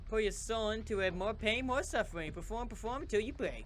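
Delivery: a villain egging on suffering; goading villain. Acted. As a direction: push her to break.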